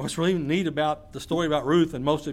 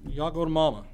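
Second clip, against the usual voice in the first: Naomi paraphrased. Retold or imitated. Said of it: "In other words".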